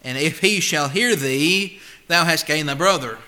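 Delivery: slow, deliberate scripture reading; measured King James reading. Acted. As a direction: read the verse with weight. Reads scripture in preaching tone.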